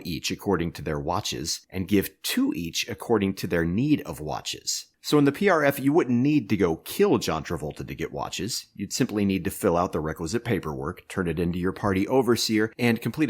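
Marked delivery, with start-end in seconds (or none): 5.0-7.9 raised declaration. Acted. Dictator lecturing Bruce Willis.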